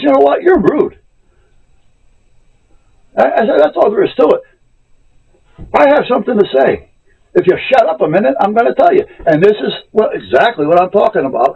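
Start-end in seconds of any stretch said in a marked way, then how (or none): 0.0-9.1 sharp, high, loud scolding of a rude clerk; telling her off. Retold or imitated. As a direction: snap back at her, voice raised high. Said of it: "exactly how I told her".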